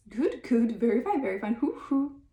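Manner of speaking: crazy act. Acted. Billy acting crazy.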